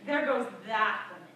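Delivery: low, hushed scandalised gossip; disapproving neighbours' murmur; gossiping neighbours. Acted. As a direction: pass judgment under your breath. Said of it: "they would say".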